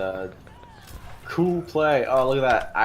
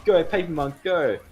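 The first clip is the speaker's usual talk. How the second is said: loud, high urging shout; excited cheer; 8 semitones higher, 7 dB louder than usual. Real, not acted. Caster urging a player on mid-fight, excited cheer. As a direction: cheer the player on, raised and punchy.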